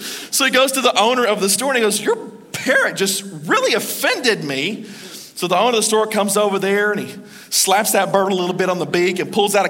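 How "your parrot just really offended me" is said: slow, indignant complaint with swooping pitch; mock-offended, drawn out; offended customer. Customer complaining to the store owner, offended.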